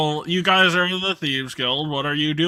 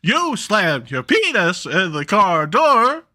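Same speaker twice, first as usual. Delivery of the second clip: Parappa the Rapper; 5 semitones higher, 3 dB louder than usual. Acted. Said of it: "Parappa the Rapper saying".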